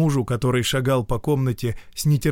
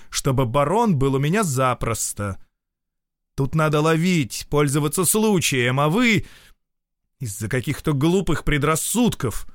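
husband scolding his wife, voice rising; raised angry voice; 5 semitones higher than usual. Acted. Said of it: "сильно возвышая голос". (с гневом, повышая голос)

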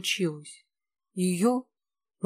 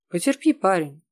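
sympathetic rumble; 5 dB louder than usual. A narrator's reading. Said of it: "участливо прогудел Тихон".

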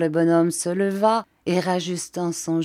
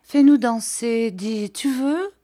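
pleading; 6 semitones higher, 5 dB louder than usual. A narrator's reading. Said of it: "lui demanda dans l'oreille".

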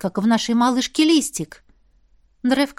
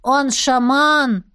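put-on proud child; 2 semitones higher, much slower than usual. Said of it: "с ещё большей гордостью".

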